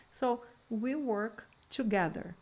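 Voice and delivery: slow, careful teacher modelling; slow model sentence. Shown as a demonstration. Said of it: "Então, we".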